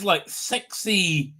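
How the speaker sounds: slow, lightly husky sexy French lady; a hint of a sultry French lady. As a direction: drawl it like a mature seductress. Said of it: "sounds like this".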